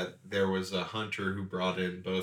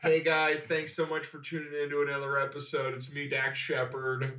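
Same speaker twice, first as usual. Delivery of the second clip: lightly voiced cheery host, laughing; Dax Shepard host voice; 5 semitones higher than usual. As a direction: greet viewers like a TV host. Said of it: "who would host that show".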